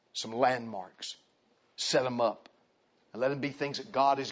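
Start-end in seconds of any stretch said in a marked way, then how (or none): 0.1-1.2 "Some landmarks." drawn out slowly, each word weighted; slow it right down on "Some landmarks."; slow emphatic repeat. Shown as a demonstration. Preacher repeating a key phrase slowly for his congregation. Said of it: "repeated for emphasis".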